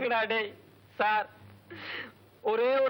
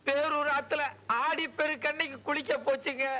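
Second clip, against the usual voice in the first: tearful lament; 3 semitones higher than usual. Acted. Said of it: "அழாதப்பா".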